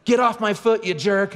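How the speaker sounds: high-pitched indignant yell; retold high, angry outburst; mock kid yell. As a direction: imitate a daughter yelling at her brother. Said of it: "she yells".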